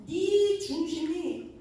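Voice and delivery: loud, very slow pronouncement; slow divine verdict. Retold or imitated.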